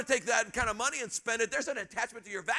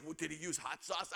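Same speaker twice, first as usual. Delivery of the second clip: mock reporter question; 6 semitones lower, 10 dB quieter than usual. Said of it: "the media goes out".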